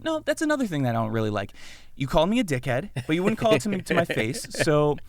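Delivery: acted peevish grumbling; annoyed. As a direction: complain fussily, mildly wound up. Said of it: "I'm just annoyed".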